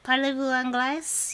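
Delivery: French question slipping into a Russian accent; Russian-tinged French accent. Shown as a demonstration. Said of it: "getting into a Russian accent like that".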